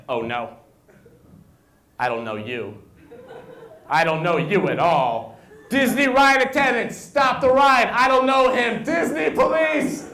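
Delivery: high, loud panicked shrieking; panicked lady. Retold or imitated. Scared lady on the ride yelling for help, high panicked shriek. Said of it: "She was like".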